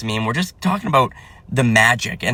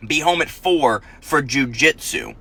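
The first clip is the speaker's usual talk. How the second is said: restrained calm; slower than usual. Retold or imitated. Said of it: "I withheld my rage and anger".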